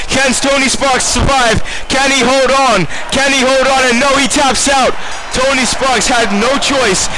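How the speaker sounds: commentator's voice climbs as the hold tightens; rising excitement. Real, not acted. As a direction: call the submission, building to the tap. Submission hold, tense climax call.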